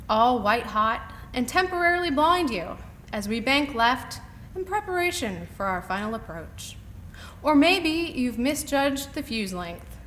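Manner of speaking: emphatic, lifted poetry-reading voice. Acted. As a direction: read the poem out line by line, projecting. Reads her poem aloud.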